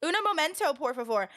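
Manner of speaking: mimicked American accent; American-accented Spanish. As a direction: imitate an American fumbling through Spanish. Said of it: "in the most American accent".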